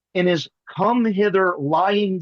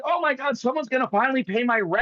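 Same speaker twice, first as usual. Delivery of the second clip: mock excited; 5 semitones higher than usual. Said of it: "Peanut was so excited".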